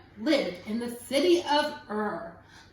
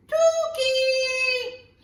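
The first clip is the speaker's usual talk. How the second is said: playful blurt; 10 semitones higher, 5 dB louder than usual. Acted. Playful wrong answer to children.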